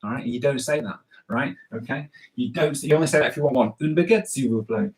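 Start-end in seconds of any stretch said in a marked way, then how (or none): 3.8-4.9 French phrase. Shown as a demonstration. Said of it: "Say it with me".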